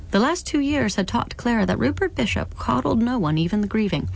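steady, measured audiobook reading; story narration. A narrator's reading. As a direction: lay out the grim scene evenly for the listener.

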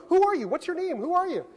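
high, loud, insistent questioning; retold agitated supervisor. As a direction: fire off demands like an outraged boss. Supervisor repeatedly challenging him by phone.

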